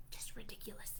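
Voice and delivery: soft muttered whisper; whispered aside. Pretend. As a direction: breathe it to yourself in dismay.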